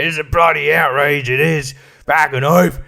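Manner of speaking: hammed-up outraged politician, admittedly inaccurate voice; Anthony Albanese. Comedian guessing at the Prime Minister's rant over cabbage, mock outrage. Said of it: "I have no idea what he sounds like".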